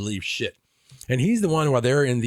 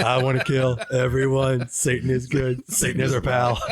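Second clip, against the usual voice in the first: mock evil neighbor.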